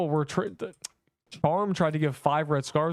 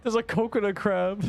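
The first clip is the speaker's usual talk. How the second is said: excited surprise; 9 semitones higher than usual. Real, not acted. Rare coconut crab drop spotted.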